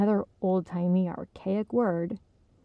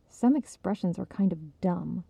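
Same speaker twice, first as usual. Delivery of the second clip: stiffly. Acted. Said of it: "Esther added stiffly".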